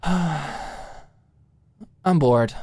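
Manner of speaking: drawn-out bored whine; bored young woman. Acted. Alicia complaining to Maud that she's bored.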